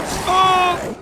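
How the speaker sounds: sudden high startled cry; slow, startled high yelp. Real, not acted. Enemy attacks suddenly.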